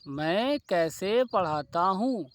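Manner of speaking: मैं कैसे पढ़ाता हूँ said slowly, word by word; slow dictation. Shown as a demonstration. Teacher repeating the example slowly for students. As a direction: spell it out slowly for the class. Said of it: "question कोई ले लो".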